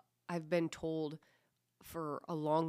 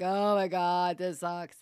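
mock whine, louder at the start; whining; 6 dB louder, slower than usual. Coach mimicking the kids during core work, whining. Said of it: "And then they're whining".

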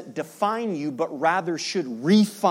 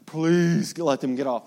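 silent plea; slower than usual. Retold or imitated. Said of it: "he thought".

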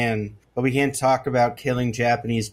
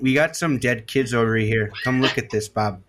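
put-on Midwestern accent. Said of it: "Midwestern Mark Zuckerberg".

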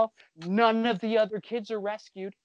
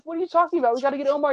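mock upset Indy; 7 semitones higher, much faster than usual. Indy protests to Harris.

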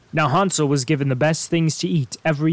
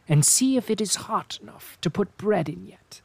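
unvoiced conspiratorial whisper; sly whisper; 5 semitones higher than usual. A narrator's reading. Witch coaxing Gretel into the oven, whispered. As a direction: whisper the trap sweetly.

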